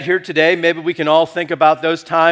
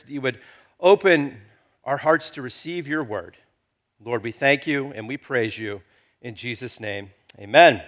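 spoken prayer; 3 semitones lower than usual. Real, not acted. Leads congregation in prayer.

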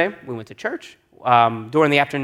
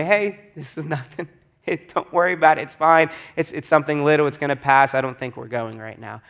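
reassuring. Retold or imitated. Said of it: "my wife assured me".

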